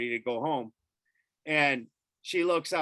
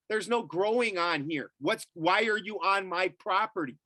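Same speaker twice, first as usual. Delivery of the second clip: mildly indignant, raised pitch; retold protest; 5 semitones higher than usual. Landowner questioning cops on his property, mildly indignant. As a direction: re-enact a protest without shouting. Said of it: "screaming at 'em".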